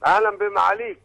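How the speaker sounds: distorted caller line on a phone; phone call audio. Real, not acted. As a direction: caller heard through a bad phone line. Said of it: "معلش الصوت مش واضح؟".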